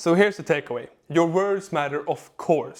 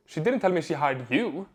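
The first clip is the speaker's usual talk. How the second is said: YOU leaned on at the end; stress on YOU. Shown as a demonstration. Coach showing how emphasis changes meaning, stress on "you". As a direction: save the weight for the last word, "you". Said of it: "Same seven words, four completely different meanings".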